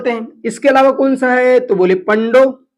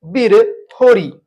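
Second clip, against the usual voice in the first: drawn-out answer; much slower than usual. Shown as a demonstration. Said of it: "तो बिरहोर जनजाति के लोग क्या बोलते हैं?".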